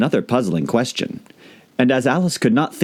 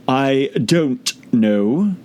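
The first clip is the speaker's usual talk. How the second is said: higher, very slow creature voice; slow caterpillar drawl; 5 semitones higher, much slower than usual. A narrator's reading. Caterpillar dismissing Alice, very slow.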